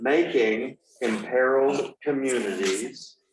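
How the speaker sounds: slow, careful, deliberate word-by-word delivery. Reading out a bill's full name to listeners, the speaker is speaking slowly. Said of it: "I'll speak slowly".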